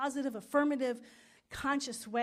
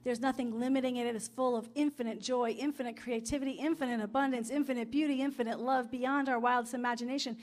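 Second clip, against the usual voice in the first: affirmative prayer; 3 dB louder than usual. Acted. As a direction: pray it out, rising with conviction.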